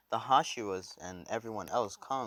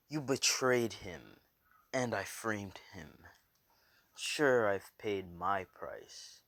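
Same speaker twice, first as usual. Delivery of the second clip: forceful, drawn-out villain taunt; villain's outburst; 3 dB louder, slower than usual. Acted. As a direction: burst out, then draw out each accusation. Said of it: "he bursts out and says".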